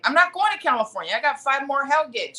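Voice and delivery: fast, high-pitched protest; rushed mock exasperation; retold exasperated refusal. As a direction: act out turning down a ridiculous demand.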